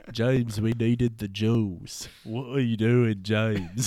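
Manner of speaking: mock Liverpool accent; a singer. M scolding Bond, mock Liverpool accent. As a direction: put on a singer's Liverpool lilt. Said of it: "M is played by, like, a singer".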